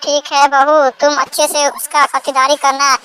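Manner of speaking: put-on very high-pitched old mother-in-law voice; mother-in-law character. Mother-in-law tells daughter-in-law to look after the guest, instructing.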